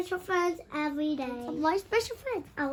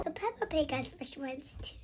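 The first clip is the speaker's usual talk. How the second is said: whisper; 2 semitones lower, 10 dB quieter, faster than usual. Real, not acted. Whispering about the book.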